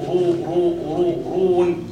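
رو in الكافرون with a light ر; Warsh ر. Shown as a demonstration. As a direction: drill رو in the Warsh manner. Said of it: "هذه رواية ورش أيضًا". (راء على رواية ورش)

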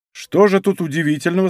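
plain reading voice

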